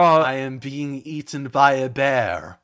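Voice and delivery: slow, deadpan German director impression; drawn-out mock documentary voice; Werner Herzog. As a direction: narrate gravely in a light German accent. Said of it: "I wanted the Werner Herzog impressions".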